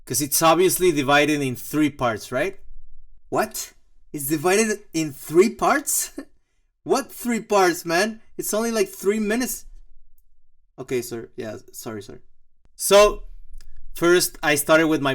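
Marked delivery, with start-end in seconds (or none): 3.3-9.6 incredulous. Pretend. Mock disbelief at three acts. 10.8-12.2 meek apology. Pretend. Apologizing to imagined boss.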